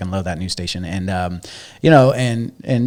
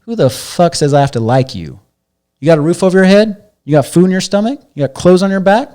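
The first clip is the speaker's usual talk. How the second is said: much higher and louder, a father tearing into his son; furious father yelling; 8 semitones higher, 8 dB louder than usual. Retold or imitated. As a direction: roar it down at the kid. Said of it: "He says".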